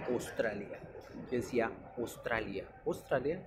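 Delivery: "Australia" as "Ostralia"; O at the start. Shown as a demonstration. Teacher showing his old mistake, O-initial "Ostralia". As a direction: replace the Au of "Australia" with a single O. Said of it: "la O".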